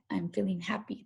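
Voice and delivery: whisper. Shown as a demonstration. Whispered example sentence.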